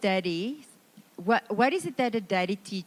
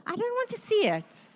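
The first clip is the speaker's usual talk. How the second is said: mock horror; 13 semitones higher, faster than usual.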